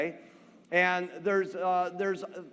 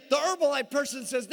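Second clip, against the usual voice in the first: ordinary talk, nothing marked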